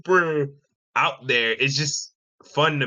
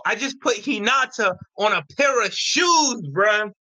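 excited; 5 semitones higher than usual. Real, not acted. Excited about his design.

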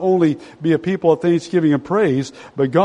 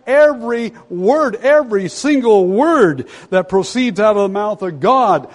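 "Every word, every single word" pitched up and punched; emphatic preaching; 5 semitones higher than usual. Real, not acted. Preacher repeating the verse after "Did you get that?", insistent and emphatic. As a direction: lean hard on each "Every" and "word".

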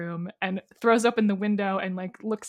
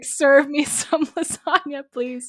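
demanding dad; 4 semitones higher, slower than usual. Retold or imitated. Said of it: "He's like".

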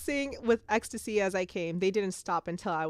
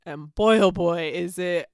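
breathless book fan; excited gush; 7 dB louder than usual. Real, not acted. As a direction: gush over how hot it is. Gushing about a steamy book.

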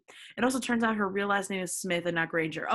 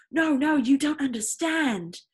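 high, louder, slow desperate plea; pleading; 6 semitones higher, 5 dB louder, slower than usual. Acted. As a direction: beg him to hear you out. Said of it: "Draco pleaded".

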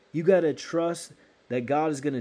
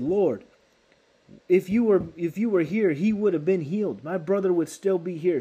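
hurt, reproachful plea, pitched higher; upset and offended; 4 semitones higher than usual. Retold or imitated. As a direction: replay her wounded complaint to Jesus. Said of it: "She was offended".

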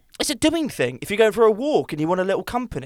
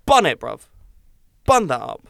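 louder, hyped-up banter; loud and rowdy; 7 dB louder than usual. Real, not acted. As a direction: bellow it like a lad. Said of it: "You're so loud".

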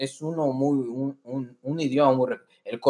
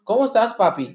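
mujer puertorriqueña cariñosa, un poco más aguda; affectionate Puerto Rican woman; 3 semitones higher than usual. Retold or imitated. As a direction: dilo con cariño, como una novia puertorriqueña. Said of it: "con cariño". («¿Cómo estás, papi?» con cariño y acento puertorriqueño)

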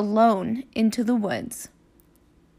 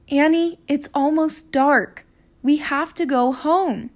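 raised, insistent big-brother call; urging; 4 semitones higher than usual. Acted. Jack urges Annie to come home, raised and insistent. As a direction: press her to come home.

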